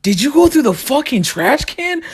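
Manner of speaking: high, outraged yell at mom; yelling in disbelief. Retold or imitated. Son yelling at mom about the trash, high and outraged.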